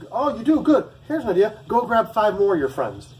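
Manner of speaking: high, loud mocking voice; mock him with a big taunting voice; a drill instructor gloating over a recruit.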